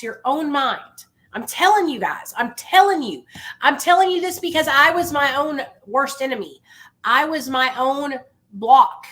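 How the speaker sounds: high, preacher-like pep talk; booming motivational speech. Real, not acted. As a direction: preach it to the room. Preaching to a struggling listener.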